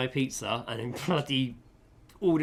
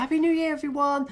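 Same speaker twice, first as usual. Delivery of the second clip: high mock Korean-accented farewell; cheerful imitation of the customer in a Korean accent; 5 dB louder than usual. Customer leaving happy as a lamb, mock Korean accent. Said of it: "You're already doing the accent".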